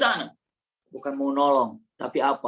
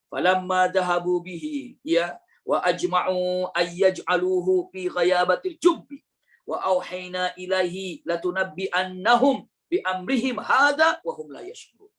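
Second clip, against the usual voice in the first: slow, chanted Arabic recitation; measured Quranic chant; 3 semitones higher, slower than usual. Acted. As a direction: recite the verse slowly and reverently.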